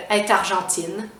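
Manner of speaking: "est argentine" slow, as "èt-argentine"; t liaison. Shown as a demonstration. Teacher giving a vowel example, slow liaison. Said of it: "on va prononcer le T".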